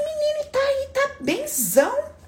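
high, delighted mock reassurance, slowing on benzão; cheery reply. Speaker answers the bigger debtor, high cheery reassurance. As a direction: cheer him on brightly. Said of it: "Eu falei".

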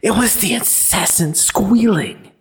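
high, anguished cry of a tormented man. A narrator's reading. Haunted man cries out his excuse to the woman, anguished high cry. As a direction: wail it out, haunted by the noise. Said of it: "he cries".

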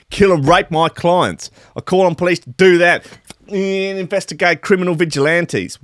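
Ross Williamson's broad Aussie rant. Retold or imitated. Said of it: "Ross Williamson told Nine News Perth".

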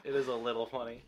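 soft, suppressing a giggle; trying not to laugh. Real, not acted. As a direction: hold the laugh down. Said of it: "I'm really trying not to laugh".

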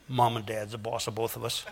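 low, soft grumble; under his breath. Retold or imitated. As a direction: mumble it sulkily. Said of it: "under his breath".

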